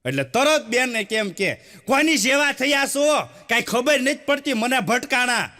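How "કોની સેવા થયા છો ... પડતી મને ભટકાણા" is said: a mild mock tirade from a wife; nagging wife. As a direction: scold him like a fed-up wife. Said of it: "લગનના tone ફરી જાય".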